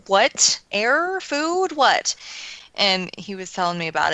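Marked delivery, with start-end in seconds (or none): 0.1-2.1 mock concern. Acting out her reply to husband.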